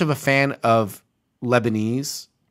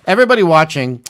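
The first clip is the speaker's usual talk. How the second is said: loud plea; 5 dB louder than usual. Real, not acted. Urging podcast listeners to watch.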